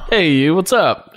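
breezy, friendly hello; offhand everyday "Hey, you, what's up?"; casual greeting. Shown as a demonstration. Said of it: "he didn't say, like".

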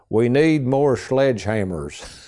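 slow, hammed-up German accent; retelling a friend's slow fake German accent; mock German accent. Framer mimicking the German technician, slow mock German accent. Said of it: "Kenneth's trying to imitate a German accent".

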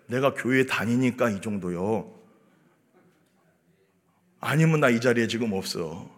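low, soft, subdued admission; hushed, low-key comeback; quiet reply. Acted. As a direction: answer the accuser softly, well below preaching volume. Models humble reply to accusers.

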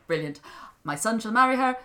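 loud, high gleeful brilliant; gleeful delight. A narrator's reading. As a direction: crow with scheming delight. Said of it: "the queen thought".

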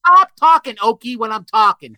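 high, loud mock scolding; mock angry. Silencing the Okie who interrupts, loud mock anger. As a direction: cut in loudly with playful outrage. Mock quarrel, cutting off the other guest.

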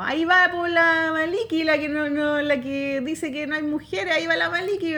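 a hint of a jeering shout; mock taunting yell. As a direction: taunt her across the hall. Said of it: "me empezó a gritar".

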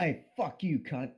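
high, loud mock-Scottish insult; hammed-up, amateur Scottish; bad Scottish accent. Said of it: "answer in a Scottish accent".

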